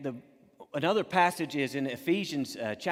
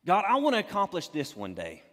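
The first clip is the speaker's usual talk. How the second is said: rising eagerness; 4 dB louder than usual. Retold or imitated. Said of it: "You think".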